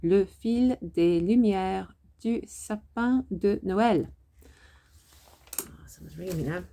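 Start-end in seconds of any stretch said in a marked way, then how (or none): 0.0-4.1 slow, rounded French "lumières du sapin de Noël"; careful native French. Shown as a demonstration. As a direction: give it a proper French accent, slowly. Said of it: "C'est la dernière fois".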